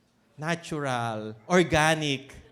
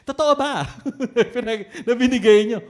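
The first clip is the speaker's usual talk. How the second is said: apostle questioning wife; 5 semitones higher, 7 dB louder than usual. Retold or imitated. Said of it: "pumapasok naman yung asawa".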